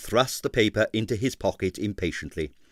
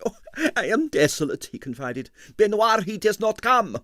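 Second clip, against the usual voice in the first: desolate impresario; 10 semitones higher than usual. A narrator's reading. Stroganoff's lament.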